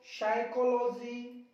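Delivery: साइकोलॉजी slowly, starting on S with no P; silent P. Shown as a demonstration. Teacher silencing P before S, साइकोलॉजी slowly without P. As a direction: draw out साइकोलॉजी from its opening "sai". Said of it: "पी को चुप कर दो".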